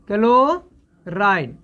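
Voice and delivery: क्लोराइड drawn out very slowly, क-लो-राइड with every syllable stretched; slow drilled name. Shown as a demonstration. Teacher drilling the ion name for students, very slow. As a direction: spell क्लोराइड out slowly so the class can copy it. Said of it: "क्लोराइड पढ़ना है".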